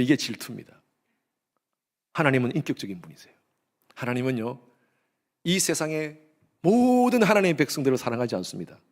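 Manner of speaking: ordinary talk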